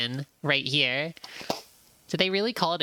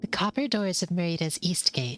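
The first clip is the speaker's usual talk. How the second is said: hushed unvoiced whisper, reading the place name; whispered caption; 3 semitones higher than usual. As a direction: whisper it like a secret arrival.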